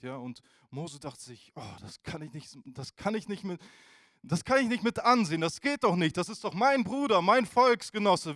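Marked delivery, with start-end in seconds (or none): 1.5-8.4 building from murmur to loud, higher protest; outraged outburst. Retold or imitated. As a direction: swell into an indignant cry. Moses upset at the beating.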